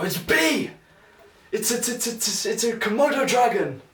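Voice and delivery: high excited yell of a quiz answer; screaming out the answer. Retold or imitated. Shouting at the TV quiz, high excited yell. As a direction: blurt the guess at the top of your voice. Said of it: "my dad and me will scream out the answer".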